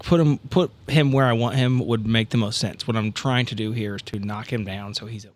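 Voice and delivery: ordinary delivery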